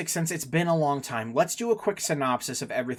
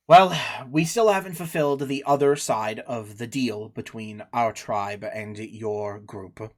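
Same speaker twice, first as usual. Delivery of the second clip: sighing tribesman; 4 semitones lower than usual. Acted. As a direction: concede it reluctantly with long pauses. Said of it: "he kind of gets this little sigh going".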